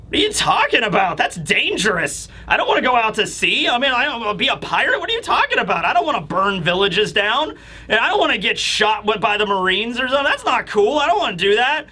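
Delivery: mock-indignant kid, pitch jumping up; incredulous refusal. Giant kids rejecting piracy to Usopp, incredulous protest. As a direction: push back in baffled protest.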